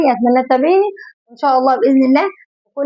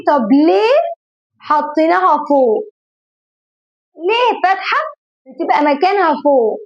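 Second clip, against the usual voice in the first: put-on small child asking. Teacher voices a small child.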